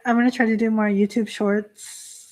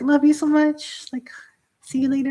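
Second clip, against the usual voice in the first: imitated gushing goodbye, pitched up; higher, lightly acted affectionate send-off; very friendly; 5 semitones higher than usual. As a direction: sing out a fond farewell, imitating an affectionate friend. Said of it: "very friendly".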